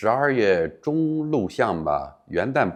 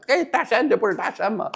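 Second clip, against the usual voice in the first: surprised recognition; 12 semitones higher than usual. Retold or imitated. Passerby recognizing him on street.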